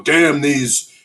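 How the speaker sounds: sneering imitation of an outraged pundit; mocking pundit voice. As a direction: ham up a blustering cable news host. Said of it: "already Fox News, of course, is, uh, on the".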